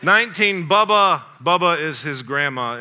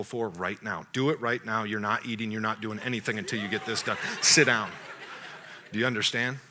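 low, stern, firm orders; a father ordering his son to write a gratitude list; stern dad; 6 semitones lower, 10 dB quieter than usual. Retold or imitated. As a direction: lay down the law to the boy.

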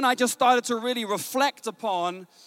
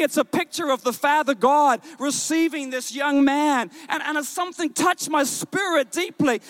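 higher-pitched, emphatic sermon delivery; impassioned preaching; 3 semitones higher than usual. Acted. Preacher tells congregation joy is released, impassioned preaching. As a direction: preach it with rising conviction, stretching key words.

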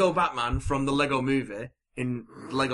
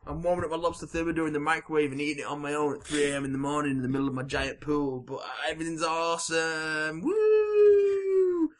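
put-on excited kid rambling; 3 semitones higher than usual. Batman's boastful ramble.

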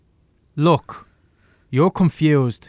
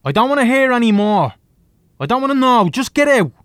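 louder and higher, frantic refusal; angry yelling; 6 semitones higher, 5 dB louder than usual. Acted. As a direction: shout him down, panicking. Man repels boy, yelling.

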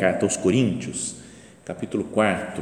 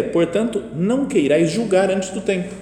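louder, ringing proclamation; emphatic scripture reading; 9 semitones higher, 6 dB louder than usual. Retold or imitated. Preacher reads the next verse aloud, emphatically. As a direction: declare the verse to the room.

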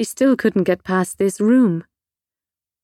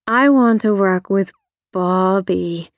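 dreamy. Acted. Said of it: "she said dreamily".

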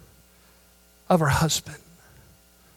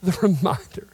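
hushed reverence; 3 dB quieter than usual. Real, not acted. Soft after climax.

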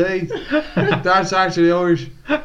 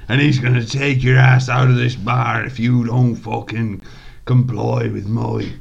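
slightly Irish; 7 semitones lower than usual. Acted. Shrek threatening the gunslinger in a low slight Irish accent. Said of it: "my slightly Irish voice".

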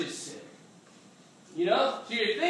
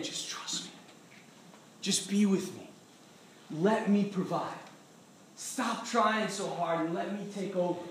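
gentle God; 3 semitones lower, 5 dB quieter than usual. Acted. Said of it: "God the whole time is saying".

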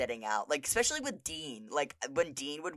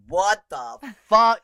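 stunned yell; 5 semitones higher, 11 dB louder, slower than usual. Retold or imitated. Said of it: "Mickey's like".

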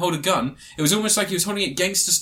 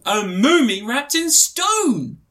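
dramatic announcement; 8 semitones higher, 4 dB louder, much slower than usual. Acted. Dramatic movie-trailer buildup.

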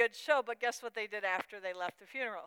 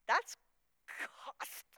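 emotional break; 3 semitones higher, slower than usual. Real, not acted. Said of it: "breaking on costly".

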